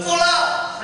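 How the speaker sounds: slow, loud, high order to fall out; drill command. Retold or imitated. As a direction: draw out the command like a drill officer. Officer's command repeated.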